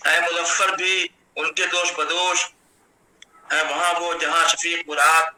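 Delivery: steady, metrical mushaira delivery; Urdu poetry recitation. Acted. Poet honouring the academy's head at an online mushaira, measured poetry recitation. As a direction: recite the verse in measured phrases, resting on the refrain.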